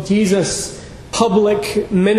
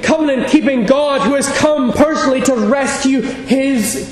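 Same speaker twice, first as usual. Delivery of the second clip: a hint of Jesus, rising into proclamation; Jesus proclaiming; 3 semitones higher than usual. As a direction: declare it as Jesus, gathering force. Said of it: "He was saying".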